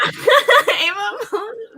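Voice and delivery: high, drawn-out words through laughter; amused laughing. Real, not acted. Host echoing a friend's self-given label, laughing. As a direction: crack up while repeating the phrase.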